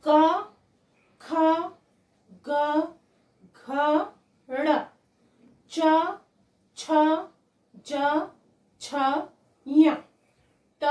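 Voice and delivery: firm singsong letters, each lilting upward; evenly spaced teacher's recital with rising tune; letter recitation drill. Shown as a demonstration. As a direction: chant the consonants one by one for repetition. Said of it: "repeat कीजिए".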